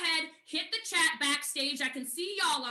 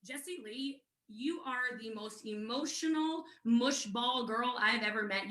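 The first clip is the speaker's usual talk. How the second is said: low, slow imitation of a sponsor; sponsor's voice; 4 semitones lower than usual. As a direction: lower the pitch to play a knowing mentor. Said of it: "my sponsor calls me and she says".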